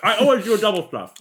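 talking through a laugh. Real, not acted. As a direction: laugh out the words. Laughing while answering.

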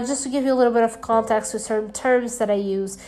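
speaking through a blocked nose; nasal, stuffed-up allergy voice; stuffy nose. Real, not acted. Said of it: "don't mind my nose kinda".

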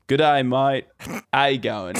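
American putting on Australian; American's Australian impression. Shown as a demonstration. American showing his version to an Australian, put-on Australian accent. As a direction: do your best Australian greeting. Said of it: "I can do mine".

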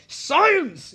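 high, loud acted proclamation; mock shout. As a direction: cry it out like a hammed-up answer to everything. Acted quarrel, Caleb insisting.

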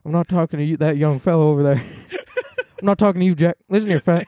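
lightly voiced New Yorky Bernie, close on the mic; a loose Bernie voice, hammed up; Bernie impression. Comic doing Bernie, scolding a dog, close-mic New Yorky voice. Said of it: "I love doing that voice".

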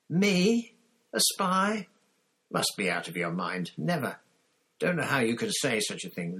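high, breathless frantic denial; panicked and breathless. A narrator's reading. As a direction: gasp it out, panicking. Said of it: "almost panting for breath".

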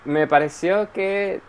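laughing through the words; slow, giggly start. Real, not acted. Asked about Thor, answering while laughing.

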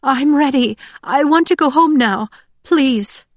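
high, pitiful begging voice; tearful pleading. A narrator's reading. Slumped, tearful woman begging to go home, high plea. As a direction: beg to go home, near tears. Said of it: "brand new tears pooled in her eyes".

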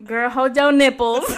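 laughing loudly while talking. Real, not acted. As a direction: blurt it out through laughter. Laughing, very loud.

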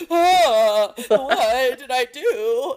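imitating a kid near tears; slow, whimpering mock-frightened kid; mock tearful worry; about to cry. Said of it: "look like they're about to cry".

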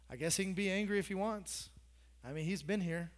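low, soft mock grumble; soft, low muttering aside. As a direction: mutter the crowd's opinion under the breath. Voicing church members' opinion.

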